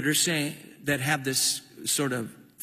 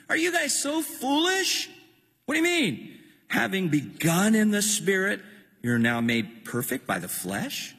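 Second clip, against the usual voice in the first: Paul's rebuke; 3 semitones higher than usual. Acted. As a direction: chide them like foolish children. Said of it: "He's talking to the whole region".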